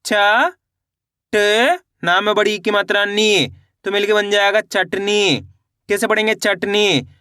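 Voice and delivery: drawn-out letters, then the joined word; even, sing-song spelling recitation; letter-by-letter pronunciation. Shown as a demonstration. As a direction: sound out the word for beginners. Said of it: "एक एक अक्षर का उच्चारण सही से".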